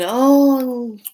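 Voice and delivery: high, loud excited oh; high bright oh. Retold or imitated. Telling herself about the coins, a loud, high oh. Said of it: "I said".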